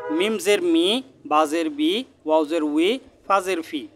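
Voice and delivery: "মি" and "বি" on closed lips, "উই" on rounded lips, "ফি" lip to teeth; deliberate drill of "মিম জের মি" through "ফা জের ফি", each ending in a held ee; lip-letter articulation. Shown as a demonstration. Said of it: "দুই ঠোঁটের শুকনো জায়গা থেকে মিম".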